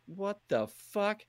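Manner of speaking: high, slow stunned what-the-fuck; shocked. Retold or imitated. Gamer ambushed by two guys, high disbelieving. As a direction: gasp it out in disbelief. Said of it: "And I was like".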